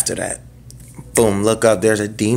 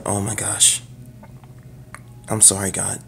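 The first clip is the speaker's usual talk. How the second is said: hushed, broken apology to God; tearful whisper; 10 dB quieter than usual. Retold or imitated. Crying alone after opening his Bible, whispering sorry. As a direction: whisper a teary plea for forgiveness. I had those hot tears.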